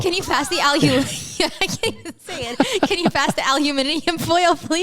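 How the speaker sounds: aluminium foil said al-yoo-MIN-ee-um, excited; rehearsed aluminium. Pretend. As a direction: practice the British aluminium, giggling. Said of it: "to be like".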